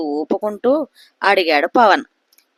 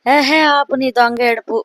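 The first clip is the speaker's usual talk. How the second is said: slow, higher, louder rebuke; scolding; 5 semitones higher, 3 dB louder than usual. A narrator's reading. Husband scolds his wife for fake crying, sharp rebuke. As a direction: snap at her to stop the fake crying. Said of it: "అంటూ కసిరాడు".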